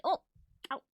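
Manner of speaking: sudden yelp of pain. Real, not acted. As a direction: react to biting your tongue. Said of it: "I bit my tongue".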